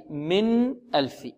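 من ألف slow, with a short nasal nun; light nasal nun. Shown as a demonstration. Teacher shows the clear nun with a light nasal sound. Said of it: "بغنة ناقصة".

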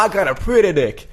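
high-pitched mock comedian's brag; Tracy Morgan. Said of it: "pratar så här".

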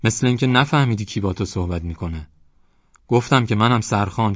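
loud, boastful bellow at the door; shouting headman. Acted. Headman shouts threats at the closed door. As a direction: threaten the young man across the door.

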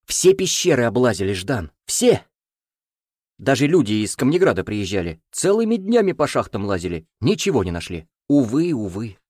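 protesting village elder. Acted. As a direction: overplay the innocent denial. Elder denies the gold. (настойчивое отрицание)

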